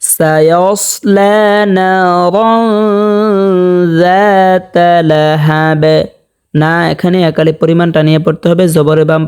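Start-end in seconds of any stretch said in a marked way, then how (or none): 0.0-5.8 slow recitation with a thick, full স in সায়াসলা; measured tajweed model, heavy স in সায়াসলা; heavy-letter recitation. Shown as a demonstration. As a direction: thicken the স of সায়াসলা and hold the long vowels. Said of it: "সৎকে মোটা করতে হবে".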